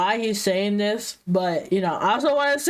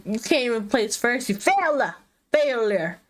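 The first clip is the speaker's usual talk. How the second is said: speaking around a retainer; talking with a retainer in; wearing a retainer; slower than usual. Real, not acted. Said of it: "I have my retainer on, so I sound a little different".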